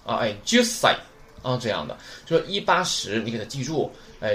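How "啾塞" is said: 啾塞 with short 啾, then a held gap; shortened, geminated. Shown as a demonstration. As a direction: double the s in 啾塞 after a short vowel. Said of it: "那么这个长音不要了". (啾塞，短音加促音停顿)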